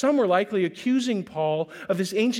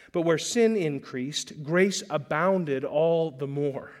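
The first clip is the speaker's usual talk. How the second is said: slow scripture emphasis; 3 semitones lower, slower than usual. Shown as a demonstration. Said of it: "slow emphatic scripture reading".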